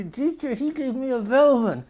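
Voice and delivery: put-on tattling child.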